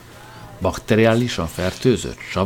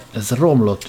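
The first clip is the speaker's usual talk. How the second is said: mock furious yell; 2 semitones higher, 4 dB louder, slower than usual. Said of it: "üvöltötte Morrison tajtékozva".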